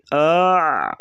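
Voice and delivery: آ said as a throaty عین; ain sound. Shown as a demonstration. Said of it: "حمزہ اور عین کی آواز میں فرق کریں گے".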